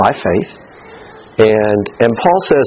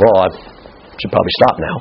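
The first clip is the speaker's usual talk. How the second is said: low, softened mock-timid backing down; intimidated; 7 semitones lower than usual. Someone screamed at by the governor, mildly intimidated. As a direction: play someone meekly giving in. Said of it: "feel intimidated".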